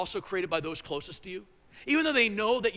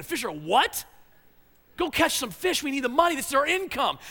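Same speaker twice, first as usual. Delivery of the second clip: exasperated wife; 4 semitones higher than usual. Retold or imitated. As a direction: play the fed-up wife, half-joking. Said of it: "that's the image I have of the conversation with his wife".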